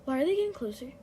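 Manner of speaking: high panicked shouting while fleeing; being chased. Real, not acted. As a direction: scream in panic, running for life. Being chased toward the exit.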